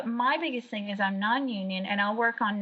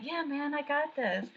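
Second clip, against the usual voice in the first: Tony's voice; 6 semitones higher, 5 dB quieter than usual. Retold or imitated. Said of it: "And Tony's like".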